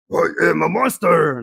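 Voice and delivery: growly monster demonstration. Acted. Coach giving an example of husky voices, monster voice. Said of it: "monster voice".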